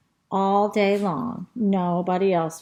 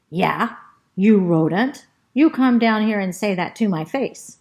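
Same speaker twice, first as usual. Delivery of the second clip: angry dog; 5 dB louder than usual. Acted. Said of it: "and he goes".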